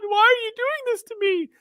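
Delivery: very high mock teenager voice; whiny sixteen-year-old. Mocking how a sixteen-year-old would protest, high teen whine. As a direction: squeal it like an exasperated teen. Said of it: "a sixteen-year-old would be like".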